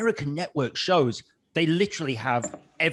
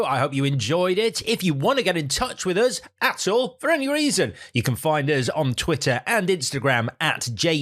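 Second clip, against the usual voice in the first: bright host sign-off read; podcast outro; 3 dB louder than usual. Acted. The host asks viewers to subscribe, upbeat read. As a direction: sell the subscribe plug.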